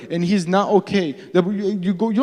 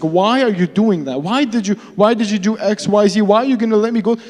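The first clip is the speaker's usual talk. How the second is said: higher, louder questioning of God; pleading protest; 4 semitones higher, 4 dB louder than usual. Acted. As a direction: demand answers in mounting frustration. Acting out people questioning God.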